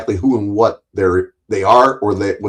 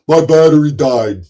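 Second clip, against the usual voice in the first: mock excuse; 5 semitones higher, 5 dB louder than usual. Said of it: "he'll say tomorrow".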